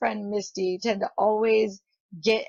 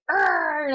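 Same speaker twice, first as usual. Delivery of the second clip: short, higher mock growl; mad Hulk roar; 6 semitones higher than usual. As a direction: imitate an angry Hulk roaring. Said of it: "all mad".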